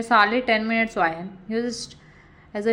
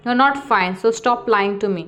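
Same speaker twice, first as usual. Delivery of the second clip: mildly raised, frustrated voice; a touch louder, losing patience. Acted. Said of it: "he said frustratingly and loudly".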